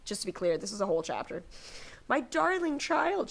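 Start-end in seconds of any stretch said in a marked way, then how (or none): 2.1-3.3 mock tearful aunt. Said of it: "she cried".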